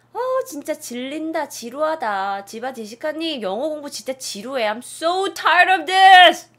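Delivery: building to a loud, high exasperated cry; whine, then blow up in frustration; fed-up whine. Acted. 영어 공부에 질린 학생이 점점 커지는 짜증으로. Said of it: "라고".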